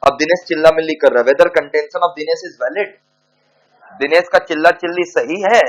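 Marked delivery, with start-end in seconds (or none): 1.3-2.9 dictating word by word to students; slow dictation. Acted. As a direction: spell it out slowly for the class to write down. Dictating the question.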